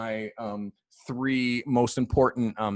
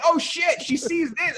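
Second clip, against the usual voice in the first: pitched way up and louder, caught out; a man realizing he's on camera; mock panic; 5 dB louder than usual. Colin Firth in the hotel bathroom, sudden mock panic.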